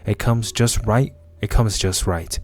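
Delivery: measured monologue with pauses between phrases; lightly acted dramatic reading; story narration. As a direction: read out an inner confession, understated. Reads the character's monologue.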